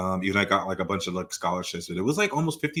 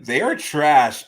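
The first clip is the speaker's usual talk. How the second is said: slow shady verdict; 2 semitones higher, 7 dB louder, slower than usual. Acted. Throwing shade at the church.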